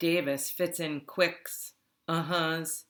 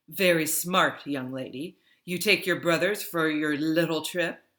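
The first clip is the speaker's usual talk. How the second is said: loud, scolding foreign-sounding woman; stern Ludmilla; 6 dB louder than usual. Acted. Ludmilla scolding Davis for taking her brothers, loud and stern. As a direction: tell off the runaways sharply.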